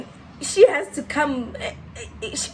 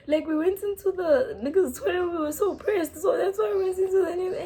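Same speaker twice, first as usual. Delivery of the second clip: laughing; 6 semitones higher than usual. Retold or imitated. Mock-pleading apology, laughing.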